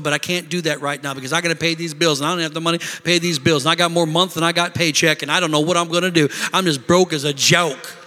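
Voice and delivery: low, fast rundown of money woes; broke person's complaining. Acted. Acting out someone complaining about being broke.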